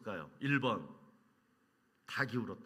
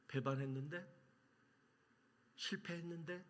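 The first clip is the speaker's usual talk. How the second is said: humble Peter. Pretend. Pastor voices Peter answering Jesus.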